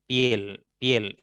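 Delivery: "piel" in one beat, pyel; one single syllable. Shown as a demonstration. Teacher repeating the correct monosyllable, "piel" unbroken. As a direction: glide from i into e in "piel" without a break. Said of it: "es un monosílabo".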